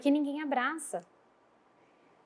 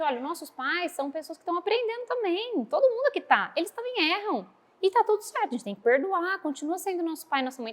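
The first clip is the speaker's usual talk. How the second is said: put-on higher, sing-song voice for children; teacher voice to kids; 6 semitones higher than usual. Teacher explaining forgiveness to the children, higher sing-song. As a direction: coax the kids gently.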